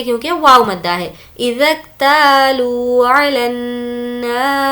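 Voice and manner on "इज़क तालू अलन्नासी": slow recitation. Shown as a demonstration. Teacher recites verse.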